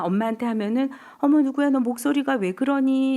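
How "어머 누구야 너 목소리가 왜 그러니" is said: louder, startled mother on the phone; surprised mother. Retold or imitated. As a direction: mom hearing her child's down voice. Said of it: "이렇게 물어본대요". (놀란 엄마 흉내)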